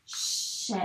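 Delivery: "Ch" with a lengthened sh before the ê; soft, stretched "Ch"; sounding out chê. Shown as a demonstration. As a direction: hold the start of "Ch" briefly, then the vowel. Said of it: "dire tous les sons qu'on écrit".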